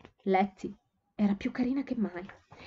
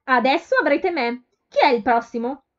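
much louder, higher call to the crowd; booming call; 5 semitones higher, 9 dB louder than usual. A narrator's reading. Shop girl calling out loudly to the crowd of young men. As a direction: bellow it to the whole room. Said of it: "con un stentoreo".

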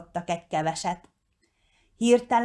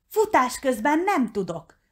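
higher-pitched, fussy objection; quibbling; 7 semitones higher than usual. A narrator's reading. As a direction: make excuses, protesting. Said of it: "akadékoskodott a róka". (akadékoskodva)

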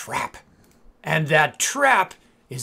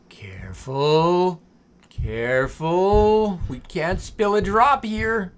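whispering; slower than usual. Real, not acted. Pouring without spilling.

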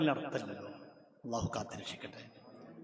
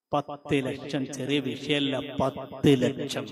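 slow; much slower than usual. Real, not acted. Slow weighty repetition.

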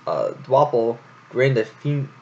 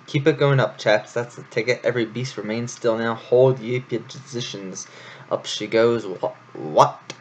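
lightly voiced bossy hare, urging on; a hint of a blustering hare commander. Hare urges the troupe to lift, lightly blustering. Florian the hare's voice.

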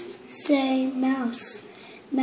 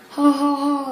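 ha ha laugh. Acted. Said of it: "laughs Dog".

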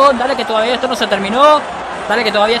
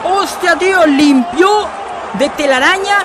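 breakneck goal commentary; 10 semitones higher, slower than usual. Real, not acted. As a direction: call the goal in a rush of excitement. Commentating a top-corner goal. (narración de gol frenética)

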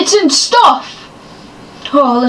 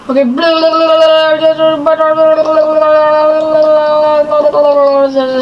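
gun sounds; 2 semitones higher than usual. Pretend. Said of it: "stupid gun sounds and stuff".

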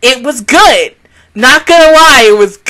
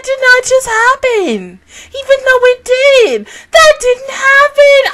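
denying shout; 9 semitones higher than usual. Real, not acted. Denial of shocking scene.

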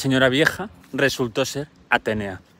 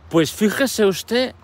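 put-on a proud girl telling the old lady she beats the goddess; proud young girl; 5 semitones higher than usual. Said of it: "Y Aracne dijo".

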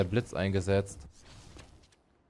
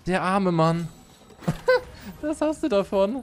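mocking laugh; 9 semitones higher, slower than usual. Real, not acted. Mocking the victim.

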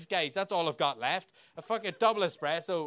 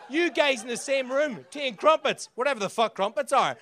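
ranting; 6 semitones higher, 6 dB louder than usual. Real, not acted. Ranting at English audience.

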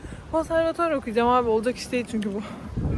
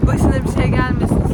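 loud over the wind; 9 dB louder than usual. Real, not acted. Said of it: "Umarım sesim duyuluyordur".

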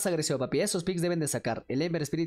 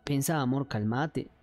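coaxing an angry lover to calm down; pleading to calm down; 4 semitones lower than usual. Pretend. Pleading partner calming him down.

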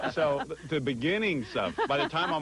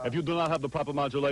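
quick, lightly voiced lecturing dad; imitating father; faster than usual. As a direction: rattle off a mock fatherly warning. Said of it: "my father talks like this".

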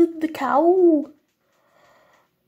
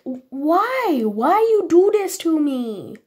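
hammed-up plea with big pitch swoops; mock wailing complaint; 3 semitones higher, slower than usual. Player retelling her protest at cousin's game setup, mock wailing. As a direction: wail it like a wronged little victim.

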